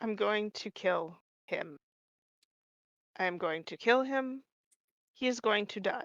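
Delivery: very hushed, very quiet muttering under the breath. Playing a character threatening to kill someone: muttering under breath. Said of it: "muttering under my breath".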